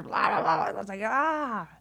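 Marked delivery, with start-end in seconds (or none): 0.0-0.6 loud garbled mock chatter; mock babble. Mom mimicking her son's YouTube guy, mock babble. 1.0-1.7 high exasperated "ah"; mock scream of morning irritation; exasperated yell. Grumpy mom reacting to morning noise, exasperated yell.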